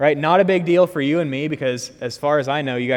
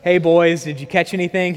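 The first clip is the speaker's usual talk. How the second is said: higher, louder playful taunt; mock teasing; 4 semitones higher, 5 dB louder than usual. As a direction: poke fun with a loud, raised call. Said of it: "he's beginning to mock him a little bit".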